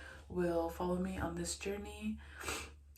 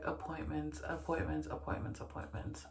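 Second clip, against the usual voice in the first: fading repetition; 2 semitones lower, 6 dB quieter than usual. Real, not acted. Repeated word fading out.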